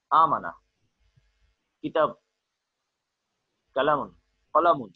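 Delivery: "amana", "kitab", "kalamun" with short, unstretched vowels; normal unlengthened reading. Shown as a demonstration. Teacher showing boys reading without mad, "amana", "kitab", "kalamun" in short vowels. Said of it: "a normal reading, it is not mad, without mad".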